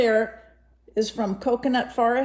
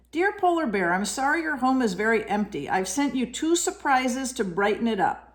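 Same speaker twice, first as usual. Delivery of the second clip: a hint of a higher friendly koala voice; lightly voiced koala; 4 semitones higher than usual. Reading koala's letter to a child, lightly voiced koala. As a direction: read the letter as a kind friend.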